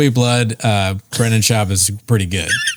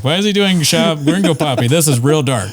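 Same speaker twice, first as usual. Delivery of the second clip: nervous son; 4 semitones higher than usual. Retold or imitated. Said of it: "His son's all nervous".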